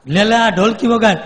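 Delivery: commanding sadhu voice; loud command. Retold or imitated. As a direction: push the drum on him. Swami orders ghost to play.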